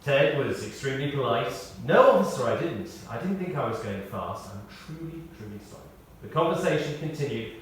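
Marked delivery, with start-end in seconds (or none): 1.9-5.8 grovelling apology. Retold or imitated. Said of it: "still in grovelling, apologetic mode".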